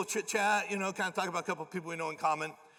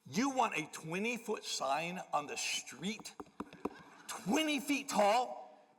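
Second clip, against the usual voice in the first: incredulous; 4 semitones higher, slower than usual. Retold or imitated. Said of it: "the big argument was".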